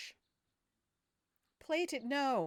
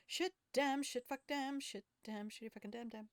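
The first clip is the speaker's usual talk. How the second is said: fading string of curses; 6 semitones higher than usual. Real, not acted. Cursing at failed save, fading out.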